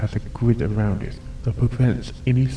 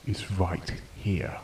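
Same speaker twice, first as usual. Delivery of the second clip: dramatic reveal; 3 semitones lower, 7 dB quieter, slower than usual. Acted. Slowed reveal.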